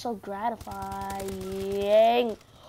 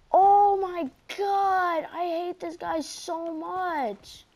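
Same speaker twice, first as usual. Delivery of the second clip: high, slow, drawn-out despair; exasperated groan; 6 semitones higher, much slower than usual. Real, not acted. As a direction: stretch it out in fed-up disbelief. Killed again by the same player.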